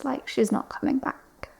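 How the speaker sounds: whisper. Real, not acted. Grieving friend trails off.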